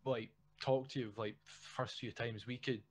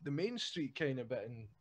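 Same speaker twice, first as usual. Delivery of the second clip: mock posh local; 4 semitones higher than usual. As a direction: play a proud Stirling local, lightly. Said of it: "someone's like".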